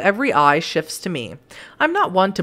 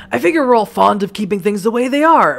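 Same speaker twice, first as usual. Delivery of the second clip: gravelly voice. Acted. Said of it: "a gravelly voice that killed me".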